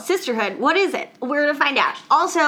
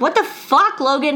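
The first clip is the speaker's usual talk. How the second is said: retold outrage, pitched up at first; mock indignation. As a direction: confront a boyfriend in mock indignation. Retelling a girlfriend confronting her boyfriend.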